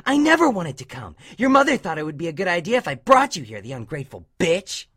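high-pitched, resentful denial; angry retort. A narrator's reading. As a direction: argue back high, falling away at the end. Dash's angry quarrel with Scootaloo.

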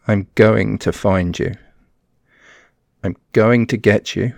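loud building threat; menacing. Acted. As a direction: bear down on her. Peak of threat.

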